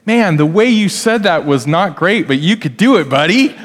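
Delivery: lightly playful encouragement; sibling kindly encouraging after a flub. Shown as a demonstration. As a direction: cheer a sibling on with a grin. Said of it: "encourage one another and say".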